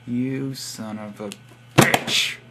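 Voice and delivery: drawn-out curse ending in a harsh burst; slow build-up, then spit out the last word; mock angry. Insulting Marlon over the mom jibe, mock angry.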